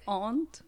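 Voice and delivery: "aunt" with a long ah; British-style pronunciation. Shown as a demonstration. Learner repeating her answer, "aunt" as long ahnt. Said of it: "I learned British English".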